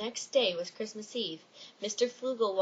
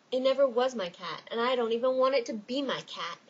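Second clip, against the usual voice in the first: insistent; 3 semitones higher, 5 dB louder than usual. Acted. Fogle protests to skydiver.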